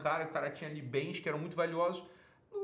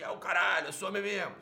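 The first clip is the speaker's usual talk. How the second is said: macho defiance; 4 semitones higher, 5 dB louder than usual. Retold or imitated. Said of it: "ou fica do outro lado assim".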